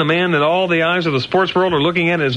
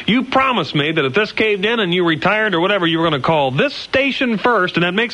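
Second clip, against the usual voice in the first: higher, building indignation; a touch of wounded outrage, speeding up at the end; mock incensed; 3 semitones higher than usual. Radio host scolding the coach for not calling, mildly angry. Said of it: "I am incensed".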